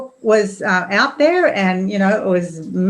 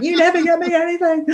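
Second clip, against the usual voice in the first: higher mock whine on never; mimicking daughter; 10 semitones higher than usual. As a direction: parody of a sulky child. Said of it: "It's like".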